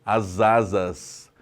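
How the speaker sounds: "as asas" slow and joined as "azazas"; "as asas" drawn out and linked; linked syllables. Shown as a demonstration. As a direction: merge "as asas" into one slow word. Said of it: "Você junta aqui".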